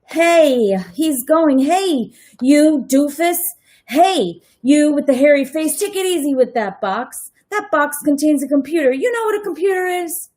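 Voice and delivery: put-on small kid yelling orders at the movers; bossy kid Kevin.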